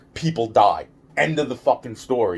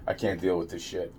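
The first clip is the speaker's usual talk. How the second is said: softer and lower; exasperated; 5 semitones lower, 9 dB quieter than usual. Real, not acted. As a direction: let the weariness drag it down. Repeated exasperated line.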